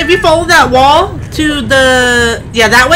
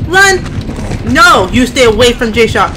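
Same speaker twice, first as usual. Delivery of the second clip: frantic urging; slower than usual. Real, not acted. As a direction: yell at a friend to flee. Urging teammate to flee.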